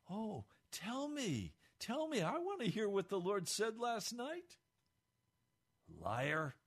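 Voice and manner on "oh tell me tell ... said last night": mock eagerness. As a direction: pretend to be dying to hear it. Saul mocks eager interest.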